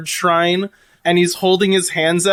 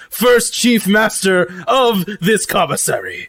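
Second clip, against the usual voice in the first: lightly put-on, declamatory character voice; proud robot cook. Lucy refuses to leave kitchen, proud formal declaration. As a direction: make a formal vow with mild pomp.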